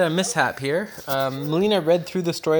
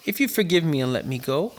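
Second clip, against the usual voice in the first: story reading. Acted. Older sibling reads story.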